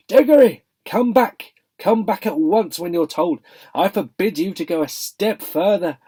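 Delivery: put-on high, strained calling after a boy; a nervous old uncle yelling from far off; half-hearted shout. A narrator's reading. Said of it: "and shouting, but by no means at the top of his voice".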